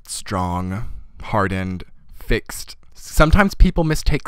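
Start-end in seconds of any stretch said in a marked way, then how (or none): none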